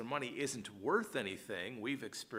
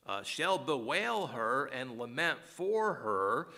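raised, measured King James reading; scripture reading; 3 dB louder than usual. Acted. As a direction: read the verse out with weight. Reads scripture aloud.

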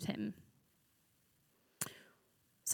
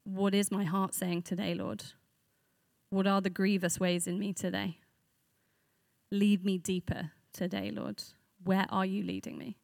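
sample prayer. Shown as a demonstration. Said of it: "you can turn it into a question".

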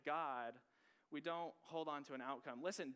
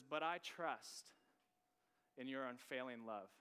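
slow reading of scripture. Shown as a demonstration. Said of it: "Just sit on that for a second".

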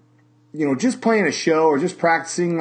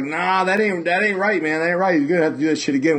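indignant drummer; 4 semitones higher, faster than usual. Retold or imitated. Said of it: "he was like".

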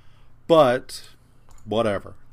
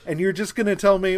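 loud, high, laughing exasperation; exasperated rant; 8 semitones higher, 7 dB louder than usual. Real, not acted. Fan protests a weak mystery payoff, loudly exasperated. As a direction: raise the voice in half-laughing outrage.

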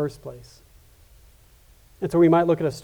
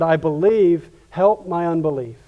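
crying out; 5 dB louder than usual. Acted. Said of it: "the father cried out and said".

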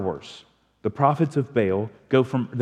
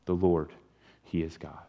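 soft, low awestruck declaration; awed worship; 6 semitones lower, 6 dB quieter than usual. Retold or imitated. Crowd on their faces declaring the Lord is God, hushed. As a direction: whisper it in reverent awe. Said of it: "they fell on their faces and said".

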